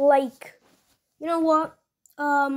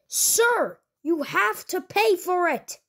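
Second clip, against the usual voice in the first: much higher, pleading cashier squeak; nervous cashier squeaking at a scary customer; squeaky voice; 5 semitones higher, slower than usual. Acted. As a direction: insist on payment in a high squeak. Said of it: "Mister Squeaky Voice".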